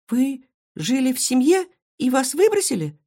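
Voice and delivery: high gasping question; gasped. Acted. Marysya is shocked the hedgehog was abandoned, high gasp. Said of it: "ахнула Марыся".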